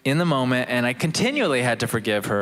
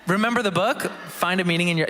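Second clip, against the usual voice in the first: radio announcer teasing a book; 3 semitones higher than usual. Pretend. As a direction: keep up the radio presenter voice. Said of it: "that's my radio voice".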